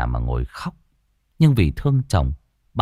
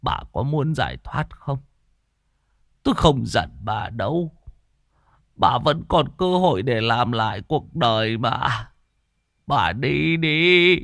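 higher, tearful urging; choked pleading; 6 semitones higher than usual. A narrator's reading. Crippled husband begs his wife to leave him, tearful. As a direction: push her to leave while holding back sobs. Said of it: "Tư Ếch nghẹn ngào".

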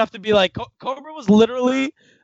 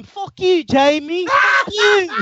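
loud, high mock yell at Jamie; retold shout; 9 semitones higher, 4 dB louder, much slower than usual. Host retells telling off Jamie, loud laughing yell. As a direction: yell it at him, half laughing. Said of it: "I told him".

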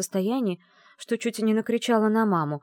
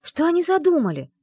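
higher and louder, indignant; indignant demand; 11 semitones higher, 6 dB louder than usual. A narrator's reading. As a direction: demand what they are plotting. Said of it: "возмутилась я". (героиня возмущённо требует ответа у дракона)

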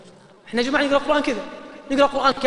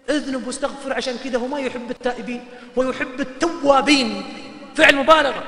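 ordinary delivery

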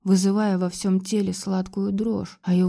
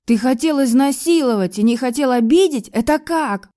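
furious accusation; 5 semitones higher, 5 dB louder than usual. Acted.

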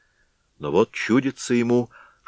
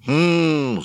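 roared hm; 8 semitones higher than usual. Acted. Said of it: "заревел медведь".

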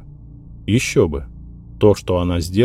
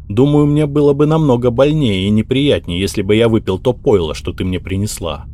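angry reply; 4 semitones higher, 4 dB louder than usual. Acted. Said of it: "зло ответил Джереми".

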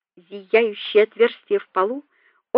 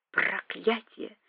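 growled; 12 dB quieter, slower than usual. A narrator's reading. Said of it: "зарычал последний".

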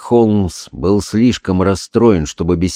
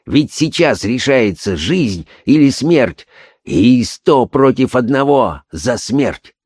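slow, then climbing ever higher; desperate urgency; 5 semitones higher than usual. Acted. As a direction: rise into a desperate cry. Desperate Holmes, rising. (отчаянно, всё выше)

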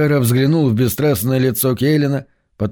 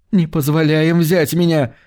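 breathed out; 5 semitones higher than usual. Acted. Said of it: "выдохнула Мэрит".

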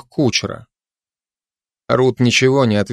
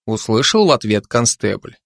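ordinary talk

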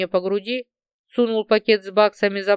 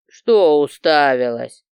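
louder, slow mocking sneer; smirking; 6 semitones lower, 6 dB louder, slower than usual. A narrator's reading. Baton mocks the staring girl with a slow smirk. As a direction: smirk as you sneer it, slowly. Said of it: "усмехнулся Батон".

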